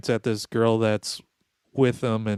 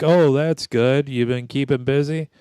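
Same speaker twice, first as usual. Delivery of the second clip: fake polite; 3 semitones higher, 5 dB louder than usual. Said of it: "I'm like".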